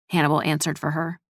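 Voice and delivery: ordinary delivery, nothing marked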